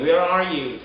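"Where are you?" with "are" fully sounded; accurate full R. Shown as a demonstration. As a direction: keep both R's in "Where are you?". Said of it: "R이 정확하게".

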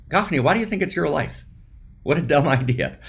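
a little voice mocking him, half-amused; inner voice. The inner voice chiding Gafni about his life, lightly teasing. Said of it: "this little voice in me that says".

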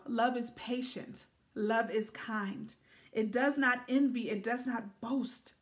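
slow, deliberate Bible reading; scripture reading. Acted. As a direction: give each line of the verse its own weight, slowly. Reads First Corinthians thirteen aloud.

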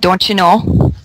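a light Minnesota lilt on the catchphrase; Minnesota accent. Shown as a demonstration. Asked to say the catchphrase, a light Minnesota accent. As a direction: give them the folksy Minnesota tag line. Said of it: "I have a desire to ask you to say, "Don't you know?".

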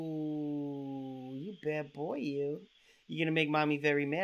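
breathy flirting. Acted. Prank caller flirting creepily.

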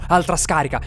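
doctor calling for another shock; anguished yell. A narrator's reading. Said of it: "sentii urla angoscianti". (grido urgente)

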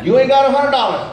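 loud laughing disbelief; dad laughing at broke son; laughing mockery. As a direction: laugh it out at him. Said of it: "dad laughing".

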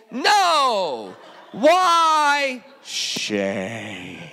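hammed-up shame refrain with laughter; laughing refrain.

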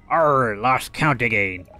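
lightly voiced pirate growl; a hint of an old sea pirate. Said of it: "I'm gonna make him a pirate".

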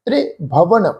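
ਤ੍ਰਿਭਵਨ as "tre-bhavan", short light e; soft pronunciation. Shown as a demonstration. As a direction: keep the first syllable of ਤ੍ਰਿਭਵਨ soft. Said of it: "ਪੋਲਾ ਜਿਹਾ ਉਚਾਰਨ ਕਰਾਂਗੇ". (ਤ੍ਰਿਭਵਨ ਪੋਲਾ ਜਿਹਾ, "ਤ੍ਰੇ" ਵਾਂਗ)

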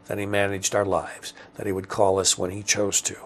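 measured, understated literary reading; story narration. A narrator's reading. Writer reading own story aloud, measured narration. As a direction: read the prose quietly and evenly.

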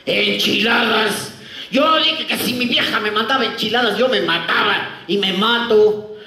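dramatic Mexican farewell, drawn out; mock Mexican accent before the shot. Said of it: "el mexicano abre su lonchera y dice".

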